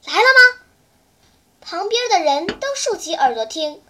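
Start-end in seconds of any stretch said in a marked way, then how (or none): 0.1-0.6 higher, louder eager ask; urgent question. Acted. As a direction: press the boy for news. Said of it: "问他". (急切追问)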